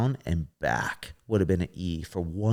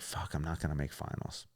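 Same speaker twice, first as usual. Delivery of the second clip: muttered to himself; 5 semitones lower, 12 dB quieter than usual. Retold or imitated. Retelling thought before routine.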